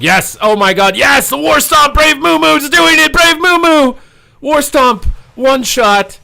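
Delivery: full-throat hype scream; ecstatic shout. Real, not acted. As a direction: lose it completely as the play lands. Caster erupts at clutch War Stomp.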